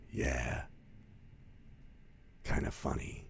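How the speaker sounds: very soft, halting imitation; uneasy deadpan reply. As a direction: answer her quietly, with a long hesitation. Clint's uneasy reply in retelling.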